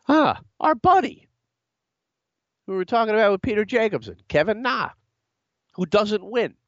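high, amused teasing. Real, not acted. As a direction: tease him with a laugh. Mocking amused golfer reference.

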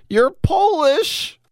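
hammed-up indignant squeal, very high; drawn-out scandalized cry; mock outrage. Mock outrage over appropriation.

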